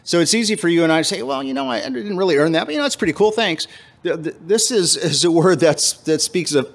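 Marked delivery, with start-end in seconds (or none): 1.2-3.7 higher-pitched casual shrug of thanks; offhand thanks. Acted. Believer accepting unearned favor too lightly, offhand.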